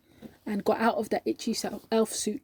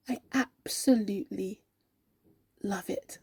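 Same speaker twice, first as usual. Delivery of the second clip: softly emphatic, sinking quieter; heartfelt sincerity; 2 semitones lower, 5 dB quieter than usual. Acted. Colleague assuring the doubter she means it, heartfelt.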